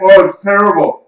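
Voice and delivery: talking while chewing; mouth full. Real, not acted. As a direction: say it through a mouthful. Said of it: "You're still chewing".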